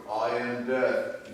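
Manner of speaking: slow, ominous Death voice; grim reaper voice. Acted. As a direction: announce it slowly like Death. Death answers in joke.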